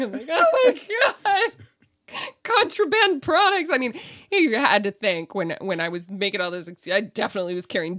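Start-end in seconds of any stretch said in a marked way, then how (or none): 0.3-3.7 panicked exclamation. Retold or imitated. Sweating after the agent lets her go.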